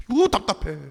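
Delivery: mock cry of exasperation; frustrated. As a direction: act out a frustrated groan. Acts out Ezra's frustration.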